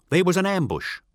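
high, nervous voice; Vilteth reporting. Acted. Vilteth explaining the ambush to his master, high and nervous. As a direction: blurt out the excuse. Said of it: "says Vilteth".

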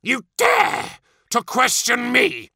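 high, slow, outraged primarch; furious, drawn-out challenge; angry snap. A narrator's reading. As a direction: round on a subordinate who dared question you. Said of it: "snapped Fulgrim".

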